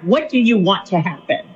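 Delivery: retold blurt, mildly harsh to the ear. Counselor blurts to her frustrated, dying friend, mildly harsh. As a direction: blurt it out with a touch of brusqueness. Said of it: "I said it kind of like that".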